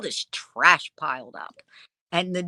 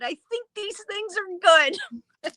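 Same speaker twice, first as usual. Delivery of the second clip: coy understatement; 14 semitones higher than usual. Retold or imitated. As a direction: play it down sweetly, like it's nothing.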